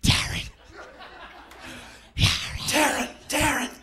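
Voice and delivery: calling out a name. Retold or imitated. Staff calling the comic offstage, loud and high. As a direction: shout the name to get his attention. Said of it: "they were over there going".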